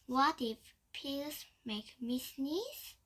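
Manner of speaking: frightened whisper. Acted. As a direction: breathe it out in fear. Fearful realisation, whispered.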